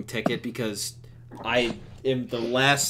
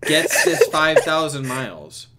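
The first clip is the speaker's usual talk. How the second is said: mock flight attendant; 3 semitones higher, 3 dB louder than usual. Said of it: "they're like".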